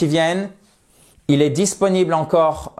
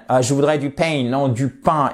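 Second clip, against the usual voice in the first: put-on English accent on French. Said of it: "ils disent pain".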